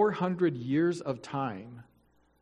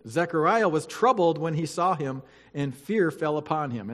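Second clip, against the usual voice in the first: louder, formal Bible reading voice; scripture reading; 3 dB louder than usual. Acted. Pastor reading Luke to the church, formal and solemn. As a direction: read it out to the congregation with weight.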